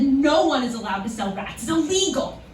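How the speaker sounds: mildly indignant store clerk; a touch of affronted insistence; retold indignation. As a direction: imitate a clerk laying down the rule. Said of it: "the indignation in her voice".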